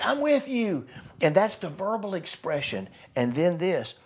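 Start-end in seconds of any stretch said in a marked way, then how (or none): 0.0-0.9 high cheering call; bullhorn shout. Pretend. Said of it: "I'm gonna shout it, get the bullhorn and say".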